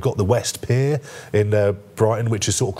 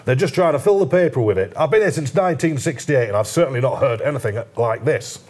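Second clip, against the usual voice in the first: mock Northern accent of a former mayor; 5 semitones higher than usual. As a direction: play the indignant councillor with a Northern accent. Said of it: "I'll put a Northern accent on".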